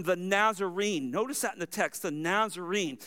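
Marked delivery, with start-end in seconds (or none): 2.0-3.0 contemptuous tone. Retold or imitated. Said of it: "It carries a very contemptuous, uh, tone".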